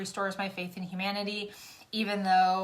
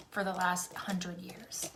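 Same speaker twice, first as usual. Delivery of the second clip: whispered joke; 2 semitones lower, 6 dB quieter, slower than usual. Real, not acted. Whispered complaint.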